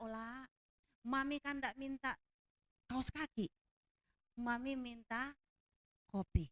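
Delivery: lightly imitated soft-spoken Solo manner; Solo accent. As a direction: put on a gentle Solo accent, holding back annoyance. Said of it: "Saya ubah suara saya jadi orang Solo". (sedikit menirukan logat Solo yang halus)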